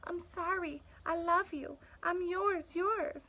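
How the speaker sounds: cowering dog. Acted. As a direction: beg like a timid, cowering dog.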